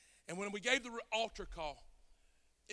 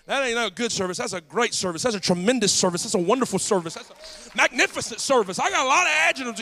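louder, building through each adjective; rising preacher's emphasis; 3 semitones higher, 16 dB louder than usual. Acted. Preacher correcting a man about the service, growing louder.

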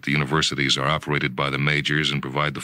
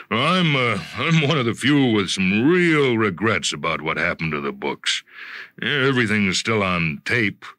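higher, wistful boss voice with regret; lightly voiced executive; 4 semitones higher than usual. Bartholomew lamenting lost books to Jonathan, mildly wistful. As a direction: muse over the lost books, then offer help.

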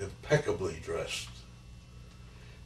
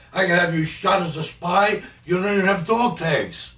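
loud, high-pitched angry threat; infuriated officer; 9 semitones higher, 9 dB louder than usual. Retold or imitated. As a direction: threaten as an enraged interrogator, retold. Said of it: "He got infuriated with me".

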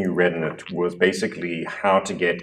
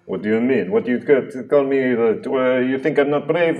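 offended king; 5 semitones higher than usual. Acted. King's snipey fight with brother.

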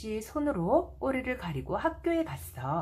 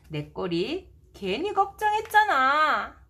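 relieved laugh; 5 semitones higher than usual. Acted.

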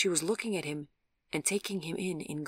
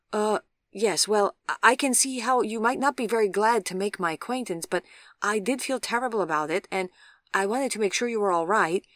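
louder, higher, stammering run of excuses; awkward gentleman, flustered; 5 semitones higher, 6 dB louder than usual. A narrator's reading. Cyclist explaining the crash to his victim, flustered. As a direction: babble an earnest apology.

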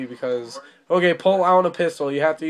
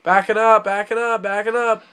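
urgent; 5 semitones higher than usual. Real, not acted. Urging driver to reverse.

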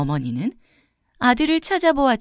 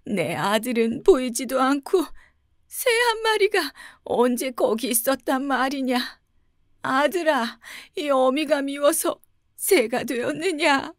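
tearful mother; 4 semitones higher than usual. A narrator's reading. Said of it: "어머니는 눈물을 흘리며".

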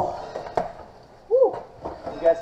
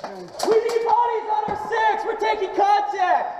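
shouted callout. Real, not acted. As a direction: shout over gunfire. Combat callout to squad.

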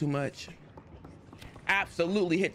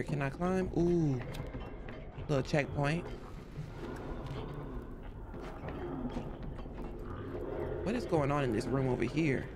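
hushed sneaking; 7 dB quieter than usual. Real, not acted. Sneaking through enemy room.

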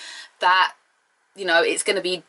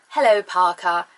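lightly voiced aristocratic lady; a hint of a lady addressing her driver; Lady Penelope. Lady greeting her driver, light character imitation. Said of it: "little accented Lady Penelope voice".

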